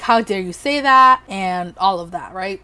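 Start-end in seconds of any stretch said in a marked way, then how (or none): 0.0-1.2 mock indignation. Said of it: "she just was like".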